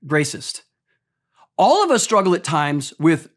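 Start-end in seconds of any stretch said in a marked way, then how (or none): 0.0-0.6 "Racist" said as "gracism", with a hard g at the front; coined word gracism. Shown as a demonstration. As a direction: stick a g sound before "racist" to coin "gracism". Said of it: "I'm gonna make up a word".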